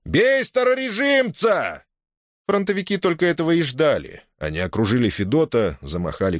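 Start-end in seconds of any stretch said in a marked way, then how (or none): 0.0-1.8 very high, slow battle yell; roaring yell. Acted. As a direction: roar the call to attack. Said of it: "заорал". (заорать во всё горло)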